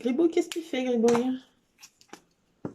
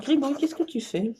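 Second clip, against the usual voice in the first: usual speaking voice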